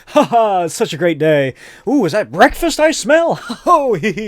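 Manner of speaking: high, loud, swooping mock delight; sing-song joy with fake giggles; hammed-up glee. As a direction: play a giddy man loving his morning. Acts out giddy happy hero.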